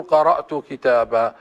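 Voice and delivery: كتابا with a clear long final a, slow; pausal alif. Shown as a demonstration. Teacher repeats the standard pause form, slow. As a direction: end كتابا on an open a. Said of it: "نقول".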